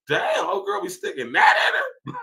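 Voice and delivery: sudden high yelp of disbelief; shocked shout. Retold or imitated. Stunned by her pic, shouting at her about it. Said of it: "I said".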